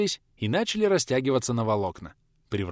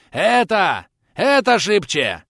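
much higher and louder, slow shout; a sailor bellowing against the wind; shouting over the wind; 9 semitones higher, 8 dB louder, much slower than usual. A narrator's reading. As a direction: yell to be heard over a gale. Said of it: "Перекрикивая ветер".

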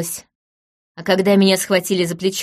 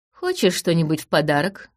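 tempting voice; 2 semitones lower than usual. Acted. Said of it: "Продолжил он искушающим голосом".

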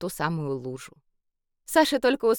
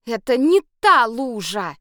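angry hiss; 4 semitones higher, 6 dB louder than usual. A narrator's reading. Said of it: "зло прошипела Саша".

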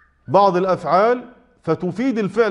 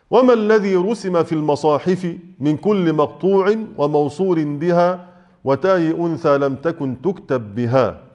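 measured verse reading, slowing at the end; formal Arabic verse recitation. Acted. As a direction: recite the teaching poem, drawing out the last words. Reads out the verse being explained.

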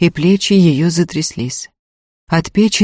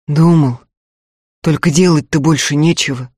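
frozen calm voice; 4 dB louder than usual. A narrator's reading. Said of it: "всё тем же спокойным, будто замороженным голосом".

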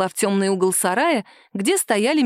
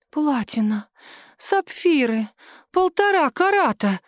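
frozen voice; 6 semitones higher, slower than usual. A narrator's reading. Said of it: "замороженным голосом повторяла".

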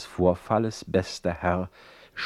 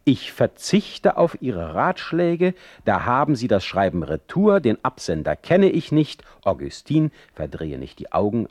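hurt indignation. Acted. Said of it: "der sich nicht zurückhalten konnte".

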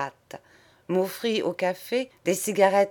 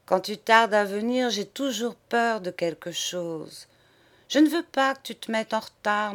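doleful; 3 semitones higher than usual. Acted. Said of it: "elle débita d'un ton dolent".

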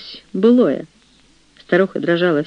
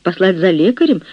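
a touch of flustered worry, a bit louder; anxious chaplain; 3 semitones higher, 3 dB louder than usual. Acted. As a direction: fret out loud, eager to help. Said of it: "восклицал капеллан простодушно и с величайшей тревогой".

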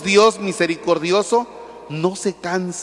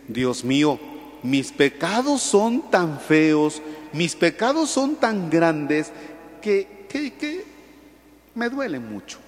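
penitent lament; 4 dB quieter, slower than usual. Retold or imitated. Voiced penitent prayer.

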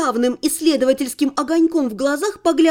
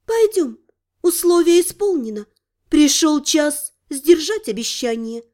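solemn. Acted. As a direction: announce it solemnly. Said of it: "торжественно предложила".

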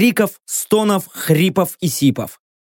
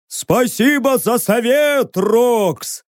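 mild shout back, sarcastic; called back; 4 semitones higher, much slower than usual. Acted. Driver calls back to Rocks, mild shout. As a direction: toss the thanks back over the engine noise. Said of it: "прокричал в ответ водитель".

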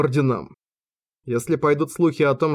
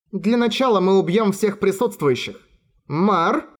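dark elf; 5 semitones higher than usual. A narrator's reading. Dark elf threatens the crowd.

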